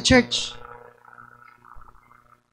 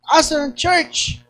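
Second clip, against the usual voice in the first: Batangas voice; 5 semitones higher than usual. Retold or imitated. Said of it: "Sabi ko".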